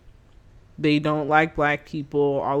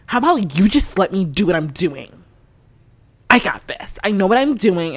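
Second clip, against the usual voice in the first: snapping back; 3 semitones higher, 6 dB louder than usual. Retold or imitated. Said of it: "he snaps at me".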